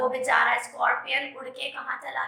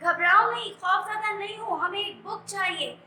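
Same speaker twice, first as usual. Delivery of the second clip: urgent call; 5 semitones higher than usual. Retold or imitated. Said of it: "और Leslie क्या कहती है?".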